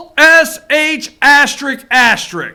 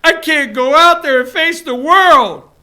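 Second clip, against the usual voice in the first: mock drunk Hillary; 4 dB louder than usual. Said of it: "Maybe she was in the back drunk saying".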